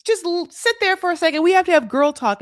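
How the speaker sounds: high-pitched imitation of a bossy friend; Julia. Imitating Julia putting the doctor on hold, high voice. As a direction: pitch it up to shoo someone aside. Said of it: "I can't do her weird ass accent".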